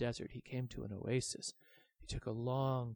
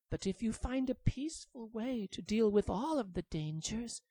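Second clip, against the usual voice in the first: higher, careful warning; earnest baby dragon; 3 semitones higher than usual. Acted. The baby dragon warning the big dragon, high and earnest. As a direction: warn him gently.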